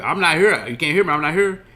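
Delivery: singsong him like a wise guy; mock taunting. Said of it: "And he was like".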